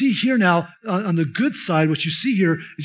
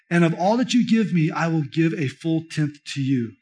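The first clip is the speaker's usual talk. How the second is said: scripture reading. Acted. Preacher reading Genesis to congregation, measured and reverent. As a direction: read the passage aloud with reverence. Reads Genesis passage aloud.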